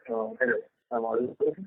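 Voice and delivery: faint and hard to hear; barely audible. Real, not acted. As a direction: speak barely above a murmur. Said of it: "It's still the same".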